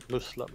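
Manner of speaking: "Muslim" with an s, MOOS-lim; Arabic-style "Muslim", oo vowel and s; Arabic pronunciation. Shown as a demonstration. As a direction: say "Muslim" as MOOS-lum, hissless plain s. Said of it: "believe the Arabic pronunciation is supposed to be".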